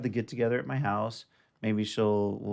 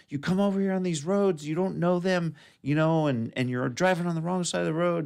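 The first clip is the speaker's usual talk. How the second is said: retold angry scolding; 6 semitones higher than usual. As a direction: imitate an irate biker lecturing. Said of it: "kept screaming and yelling".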